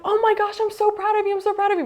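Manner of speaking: high, loud gushing; excited proud dad. Retold or imitated. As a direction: imitate an overjoyed parent bursting with pride. Voicing dad's proud outburst.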